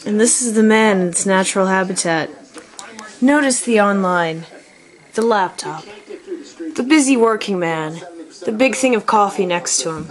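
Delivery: hushed nature narrator; nature documentary. Pretend. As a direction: present the dad like wildlife. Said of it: "Today we are watching The Natural Man in his habitat".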